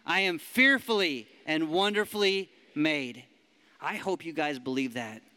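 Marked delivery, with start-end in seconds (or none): 0.0-3.2 louder repeat. Shown as a demonstration. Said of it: "One more time".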